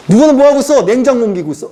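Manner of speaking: usual speaking voice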